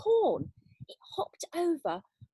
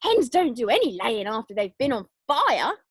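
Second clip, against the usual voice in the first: shout; 4 dB louder than usual. Acted. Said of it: "Grandma shouted".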